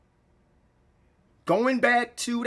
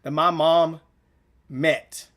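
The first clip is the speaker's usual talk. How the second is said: holding back tears; 6 semitones lower than usual. Real, not acted. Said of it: "I'm about to cry right now".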